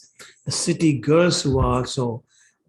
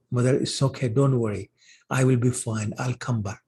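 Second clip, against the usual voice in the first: lightly acted soothing, a little lower; calm a worried mother, softening towards the end; gentle reassurance; 3 semitones lower, 4 dB quieter than usual. Son reassures his crying mother, gently calming.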